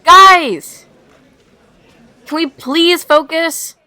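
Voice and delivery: loud, high exasperated outburst; exasperated plea. Acted. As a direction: cut through the chatter, then drag out the plea. Fed up with chatter.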